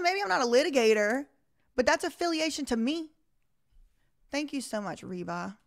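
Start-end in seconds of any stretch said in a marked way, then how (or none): 0.0-3.1 mildly heated, pushing back on the lawyer; aggravated retort. Retold or imitated. Retelling her comeback to the lawyer, mildly aggravated. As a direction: firmer and a touch louder, standing her ground. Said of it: "Y'all see I'm getting more aggravated".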